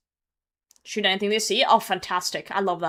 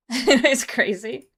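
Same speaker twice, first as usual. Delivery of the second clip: excited; 5 semitones higher, 8 dB louder, much slower than usual. Real, not acted. Amazed at the damage.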